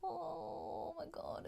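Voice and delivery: slow, high, stretched-out oh my God; awed gasp. Real, not acted. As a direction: let the awe pull the words long. Overwhelmed by swatch colour.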